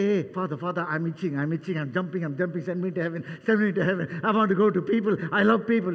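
mock eager plea. Preacher mocking what Jesus never said, in an eager, hammed-up plea. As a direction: play an impatient Jesus begging to leave for earth. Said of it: "Jesus didn't say".

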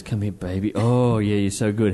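low, lightly acted drunken come-on; drunk amorous groom. Drunk groom coming on to the mannequin, mock-amorous. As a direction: imitate a drunk man sweet-talking, low-voiced. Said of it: "drunkenly. He goes".

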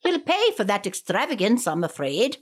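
put-on Irish-Scottish accent. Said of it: "my terrible Irish slash Scottish accent".

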